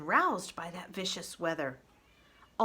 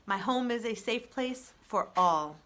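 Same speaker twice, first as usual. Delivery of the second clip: calm robot voice; 3 semitones higher than usual. Acted. Roz the robot proposing peace to the animals, even robot voice. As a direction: speak like a steady, gentle machine.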